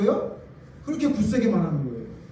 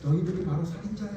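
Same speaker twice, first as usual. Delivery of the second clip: gentle soft version; 2 semitones lower, 6 dB quieter, faster than usual. Shown as a demonstration. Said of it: "이렇게 말하면 돼요?".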